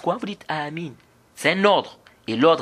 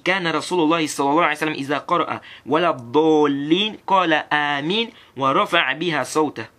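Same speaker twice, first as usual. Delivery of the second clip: hadith recitation; faster than usual. Acted. Quoting the hadith in Arabic.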